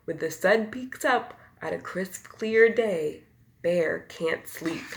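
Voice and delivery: lively bedtime storybook read; reading to children. A narrator's reading. Reader to children, lively storybook voice. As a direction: tell it like a picture book to little ones. Reads picture book aloud.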